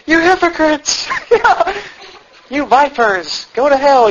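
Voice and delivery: high, hammed-up grinning preacher voice; mock smiling Jesus. Mimicking the movie Jesus rebuking the Pharisees, grinning. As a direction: rebuke them with a silly grin. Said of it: "he's grinning and smiling the whole time".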